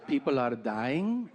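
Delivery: put-on slow, light Peruvian accent, alarmed question. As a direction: mom fishing for bad news, Peruvian accent. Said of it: "she's from South America, Peru".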